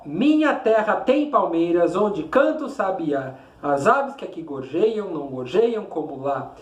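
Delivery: measured, rhythmic verse with swinging pitch; poem recitation. Shown as a demonstration. Teacher reads Canção do Exílio to pupils, rhythmic poem recitation. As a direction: recite it line by line, letting the beat show.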